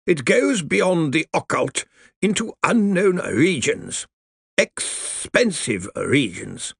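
put-on dry crackling old lawyer voice; grave undead lawyer, slow; crackly zombie lawyer. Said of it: "his voice crackled".

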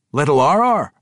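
surprised dwarf voice. A narrator's reading. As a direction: ask it as a startled dwarf king. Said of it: "King Emrys asked with surprise".

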